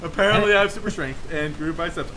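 dropping voice deep. Pretend. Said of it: "and my voice got deeper".

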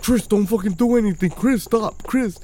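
lightly mimicked warning, slightly high; mild mock pleading; alarmed friends. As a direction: imitate friends trying to stop him. Friends warning him, retold.

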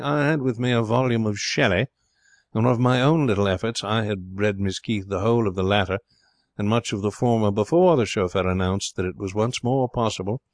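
lightly voiced poet telling his tale; a hint of a pompous storyteller; self-satisfied poet. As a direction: recount it grandly to the table. Voices the poet Barstow's narrative.

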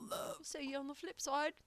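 playful failed Liverpool accent; attempted Liverpool accent. Shown as a demonstration. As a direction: try a Scouse Liverpool accent and miss. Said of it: "I can't do a Liverpool accent".

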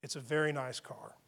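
soft, calm reassuring words; soft reassuring promise; gentle reassurance. Retold or imitated. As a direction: gently soothe the angry woman. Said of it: "I changed direction".

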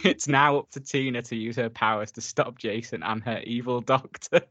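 trying not to laugh; fighting the giggles to finish reading; amused read on the edge of laughter; reading through laughter. Real, not acted. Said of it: "can't get through reading that without laughing".

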